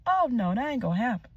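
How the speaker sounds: mock outrage, climbing high on the later words; indignant retelling of an angry inner rant; retold indignation. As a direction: act out being furious at him, rising in pitch. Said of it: "I got furious because I'm like".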